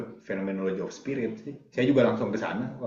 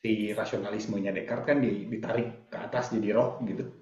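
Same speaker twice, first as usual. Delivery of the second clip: far from mic. Real, not acted. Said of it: "suaranya menggema".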